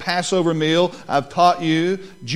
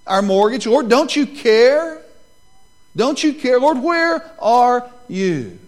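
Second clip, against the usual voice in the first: plead, then cry out louder and higher to God; desperate prayer; 6 semitones higher, 6 dB louder than usual. Acted. Congregation's desperate prayer voiced aloud.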